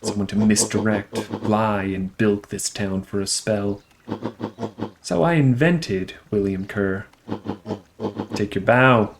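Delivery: villain voice. Acted.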